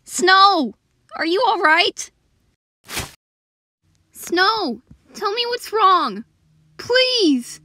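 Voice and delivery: loud, high-pitched worried pleading; alarmed concern. Acted. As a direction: panic over your hurting partner. Alarmed partner of one in pain.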